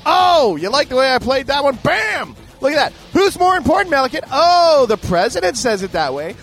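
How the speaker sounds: high, loud crowing; hammed-up victorious outburst; triumphant gloating. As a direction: crow over a winning card, mock-bragging. Triumphant retort in mock argument.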